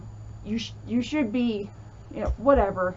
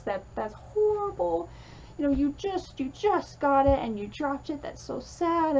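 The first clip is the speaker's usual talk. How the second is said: higher-pitched, acted sympathy for an upset child; comforting; 3 semitones higher than usual. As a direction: soothe a child over a small heartbreak. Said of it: "comforting them without trying to control".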